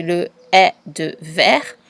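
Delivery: "est" said as an open è, slow and clear; open è sound. Shown as a demonstration. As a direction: stretch the open vowel of "est" in "verre". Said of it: "Le est de dessert".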